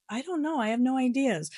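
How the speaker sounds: high, helpless clerk voice; lightly mocking a confused coworker; flustered colleague. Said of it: "The colleague's like".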